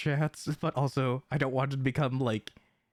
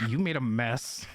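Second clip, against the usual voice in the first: lower, rising at the end on "mess"; contrasting take; 5 semitones lower than usual. Shown as a demonstration. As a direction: lower voice with amused lift. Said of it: "Versus me going".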